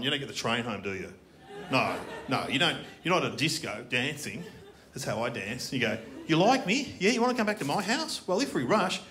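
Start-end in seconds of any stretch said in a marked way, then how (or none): 6.3-9.0 lightly voiced eager suitor, a bit higher; eager pick-up line. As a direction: chat someone up with hopeful keenness. Comic acting out a train pick-up.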